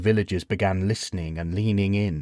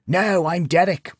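put-on deadpan old man; 9 semitones higher, slower than usual. A narrator's reading.

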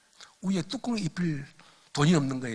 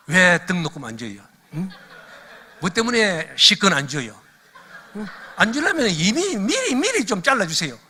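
loud, hammed-up complaint climbing higher; mock tearful protest; 4 semitones higher, 6 dB louder than usual. Preacher re-enacting his prayer to God about unpaid tuition, loud mock protest. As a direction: plead and scold in a comic retold prayer. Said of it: "막 우는 거예요".

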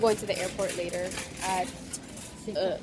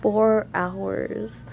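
tired; much slower than usual. Real, not acted. Worn out after four hours' sleep, tired. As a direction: drag the words out tiredly. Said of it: "So tired still".

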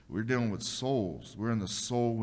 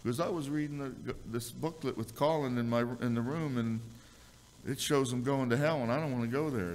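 put-on higher voice of an upset boy; child explaining; 4 semitones higher than usual. Son explains the hell booklet to his father, higher child's voice. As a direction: tell it as the worried little son.

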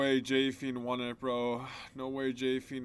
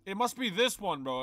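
panicking gamer; 2 semitones higher, 6 dB louder than usual. Real, not acted. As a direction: yell like you're about to die. About to lose hardcore status.

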